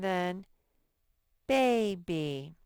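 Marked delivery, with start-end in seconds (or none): 1.5-2.5 put-on "baby" with a long, stretched BAY; vowel modelling. Shown as a demonstration. Teacher showing children the long A, stretched vowel modelling. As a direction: draw out the A in "baby". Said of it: "first syllable has a long A".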